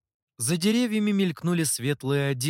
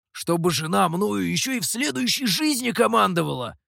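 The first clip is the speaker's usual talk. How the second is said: хмыкая; 5 semitones higher than usual. Acted. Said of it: "хмыкнул он".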